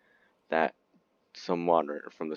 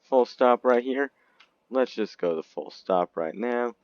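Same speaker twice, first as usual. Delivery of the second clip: captain's order; 4 semitones higher, 4 dB louder than usual. Acted. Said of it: "Captain be like".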